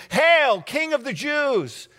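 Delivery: sneering hail to a captive king; mocking call. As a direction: jeer it like soldiers. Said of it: "and called out to him".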